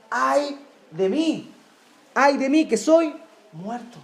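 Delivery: very slow, mournful ay de mí; slow lament. Acted. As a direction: drag out each word as a dying man. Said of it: "la respuesta de Isaías". (lamento lento y dolido)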